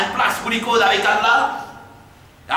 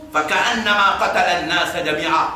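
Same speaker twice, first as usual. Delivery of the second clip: Quran recitation; 3 semitones lower, much faster than usual. Acted.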